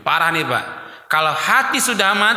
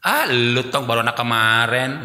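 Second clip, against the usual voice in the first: lower, belittling put-down; mock dismissive retort; 6 semitones lower than usual. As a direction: talk down to a youngster. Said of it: "bilang gitu". (nada meremehkan anak muda)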